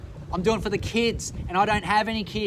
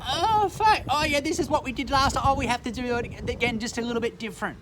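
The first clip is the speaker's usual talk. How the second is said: mocking the sheep; 3 semitones higher than usual. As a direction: sneer at people who fall for it again. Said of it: "and you just go".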